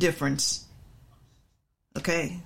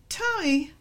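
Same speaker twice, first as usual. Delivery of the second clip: another tone; 9 semitones higher than usual. Shown as a demonstration. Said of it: "Also warning".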